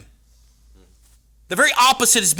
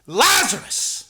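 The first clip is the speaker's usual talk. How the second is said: calling out; 8 semitones higher, 5 dB louder, much slower than usual. Acted. Calling out at tomb.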